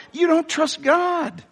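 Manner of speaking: slow, high, full-voiced rebuke; preaching shout. Real, not acted. Preacher crying out to the congregation, slow high shout. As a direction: stretch it out and cry it high.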